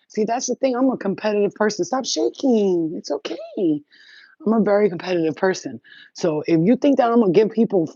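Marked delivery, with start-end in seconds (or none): 1.8-3.4 soothing pet. Real, not acted.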